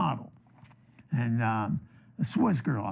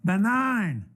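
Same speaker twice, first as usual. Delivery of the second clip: higher, drawn-out announcement with falling pitch; bingo caller announcement; 5 semitones higher than usual. Retold or imitated. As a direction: announce it like calling bingo on the microphone. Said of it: "so I got on the microphone".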